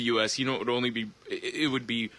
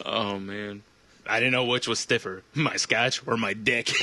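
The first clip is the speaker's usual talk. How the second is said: noir detective. Pretend. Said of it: "sounds like an old-timey detective".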